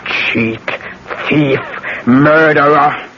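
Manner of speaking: spits out each accusation in turn; a furious list of accusations; angry accusation. Acted. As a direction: hurl the charges at him one by one. Accusing the killer to his face.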